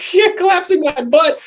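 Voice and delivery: scoffing retort. Retold or imitated. Scoffing at dad's worry.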